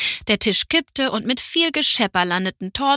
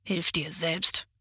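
slow, soft, lower spiteful hiss; aunt sneering at grandpa's saying, slow soft hiss; 3 semitones lower, 3 dB quieter, slower than usual. A narrator's reading. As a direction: hiss the words slowly with contempt. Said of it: "hörte Carla sie zischen".

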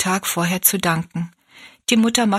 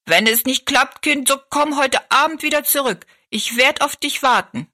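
higher, calling from the doorstep; calling after; 7 semitones higher than usual. A narrator's reading. Old Mannikin calling after Rosalie from the doorstep, raised voice. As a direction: call after the departing girl. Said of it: "rief sie noch hinterher".

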